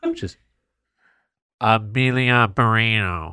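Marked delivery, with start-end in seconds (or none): 1.6-3.3 slow, nose held shut; pinching nose. Shown as a demonstration. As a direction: say the name with your nose pinched. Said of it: "if you hold your nose and say her full name".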